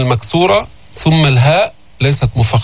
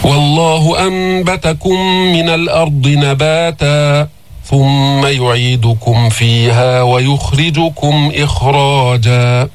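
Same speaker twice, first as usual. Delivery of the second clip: slow, drawn-out tajweed recitation; Quran recitation; much slower than usual. Shown as a demonstration. Teacher recites the verse for his students, slow melodic tajweed. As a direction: chant each verse slowly and melodiously.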